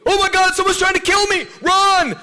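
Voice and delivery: very high, very loud screaming panic; panicked scream. Retold or imitated. Leader shows kids how not to react, screaming in mock terror. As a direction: scream it like a terrified victim. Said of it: "What do you want me to do?".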